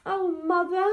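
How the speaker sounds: high, loud dismayed cry. A narrator's reading. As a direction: gasp it out at the mess. Daughter dismayed at the flood.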